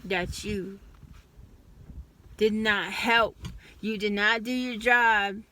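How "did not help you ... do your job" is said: each word of did not help pushed loud and hard; accusing, louder on help and job; angry emphasis. Real, not acted. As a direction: hammer home that they failed you. Scolding the advocate who failed.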